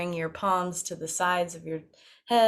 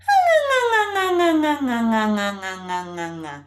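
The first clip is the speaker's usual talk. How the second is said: falling pitch; 5 semitones higher, 6 dB louder, faster than usual. Shown as a demonstration. Descending after climbing up.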